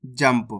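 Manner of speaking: जंप with a half m closed straight onto the p; half-M pronunciation. Shown as a demonstration. Teacher showing learners the half letter, half-M pronunciation. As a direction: say जंप low, m joined to p. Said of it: "आधा माह का उच्चारण करा है इस प्रकार से".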